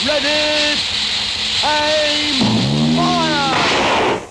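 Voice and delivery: barked military orders, loud; firing squad command. Acted. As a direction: call each order out sharply.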